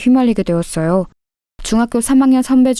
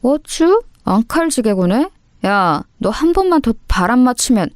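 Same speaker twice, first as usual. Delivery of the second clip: mocking delinquent menace; taunt, then warn; threatening bully; 3 semitones higher than usual. Bully answering the girl's protest, mocking threat. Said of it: "희진이를 협박했습니다".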